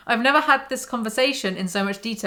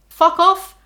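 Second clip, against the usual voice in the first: angry; 8 semitones higher, 8 dB louder than usual. Real, not acted. Angry reaction to book quote.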